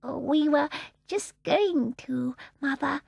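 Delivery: slow, scared little voice; frightened whisper. A narrator's reading. Miss Annie answering her fierce mother, frightened. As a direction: shrink from your mother. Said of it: "in a frightened whisper".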